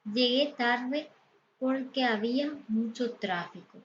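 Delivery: slow, careful read of the first words; slow example sentence. Shown as a demonstration. Teacher slowly reads an example to students. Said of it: "Aquí tenemos algunos ejemplos".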